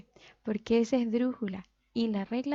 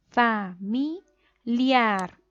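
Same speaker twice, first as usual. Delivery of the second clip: Familiar slowly split, fa-mi-LIAR, louder on LIAR; stress on last syllable; 5 dB louder, much slower than usual. Shown as a demonstration. Teacher showing where the voice falls, Familiar stressed on LIAR. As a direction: draw out and punch the final LIAR of Familiar. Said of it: "dónde cargamos la voz".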